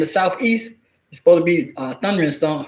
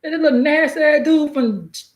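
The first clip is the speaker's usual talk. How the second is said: much higher, startled "What?"; shocked reaction; 8 semitones higher than usual. Retold or imitated. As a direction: react in disbelief to the news. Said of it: "I seen like".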